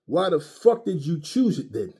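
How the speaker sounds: ordinary talk, nothing marked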